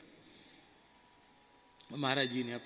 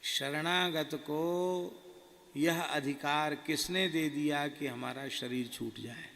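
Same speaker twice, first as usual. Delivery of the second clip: stern guru rebuke; slower than usual. Retold or imitated. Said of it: "बैठते ही बोले".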